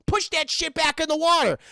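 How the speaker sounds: high, worked-up cartoon slacker; Shaggy. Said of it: "He's like".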